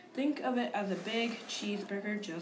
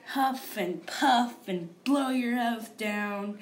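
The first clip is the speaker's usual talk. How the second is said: dramatic storyteller; 5 dB louder, much slower than usual. Retold or imitated. Quoting the jazzed-up fairy tale.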